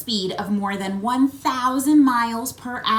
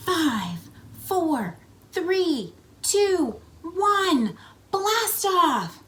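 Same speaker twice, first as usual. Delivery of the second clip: climbing higher with each number; building countdown; 8 semitones higher, much slower than usual. Pretend. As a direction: build the countdown to a big blast off. Rocket launch countdown.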